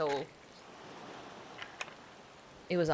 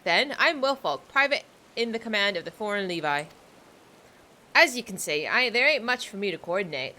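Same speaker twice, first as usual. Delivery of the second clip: put-on pirate accent; 2 semitones higher than usual. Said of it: "I'm trying to sound like a pirate".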